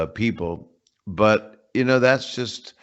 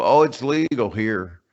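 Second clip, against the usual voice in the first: drawn-out Southern drawl; slow it down into a Southern twang; Southern accent; 3 dB louder, slower than usual. Acted. Comedian quoting locals on the law, Southern accent. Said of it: "had to put a Southern accent".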